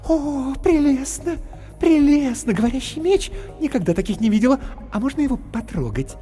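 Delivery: high, squealing delight; delighted clowness. Acted. Clowness squealing in delight at the sword. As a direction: gush over the talking sword.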